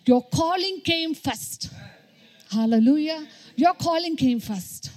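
forceful sermon with punched key words; emphatic preaching. Real, not acted. Preacher tells young believers of their calling, emphatic preaching.

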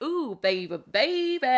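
put-on cooing, swooping up high on baby; retold girly excitement; excited swoon. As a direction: croon it like hyped-up girlfriends. Acts out girls excited about guy.

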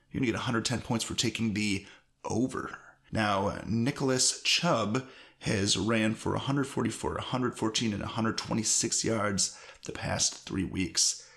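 recorded down in an echoey basement. Real, not acted. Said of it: "you can tell it sounds different".

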